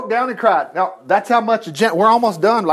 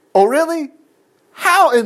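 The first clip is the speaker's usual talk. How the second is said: sarcastic; 7 semitones higher than usual. Real, not acted. Sarcastic retort to skeptic.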